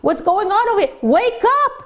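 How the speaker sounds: a lightly acted boss yelling upward; retold angry yell. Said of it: "he started to yell at the driver".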